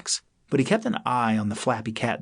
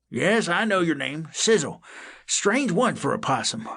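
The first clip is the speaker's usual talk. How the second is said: lightly voiced old cat, higher; a hint of a kindly old tomcat; 8 semitones higher than usual. A narrator's reading.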